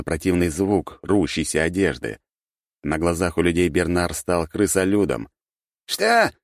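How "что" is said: high startled questions; bewildered. A narrator's reading. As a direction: blurt it out in shock. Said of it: "недоумевал тот".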